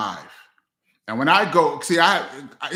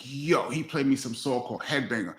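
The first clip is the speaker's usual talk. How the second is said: imitating Chris; 4 dB quieter than usual. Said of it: "This is Chris talking".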